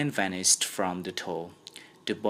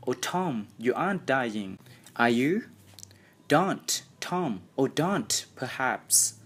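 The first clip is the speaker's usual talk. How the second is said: frightened; 5 semitones higher than usual. Acted. Sid frightened.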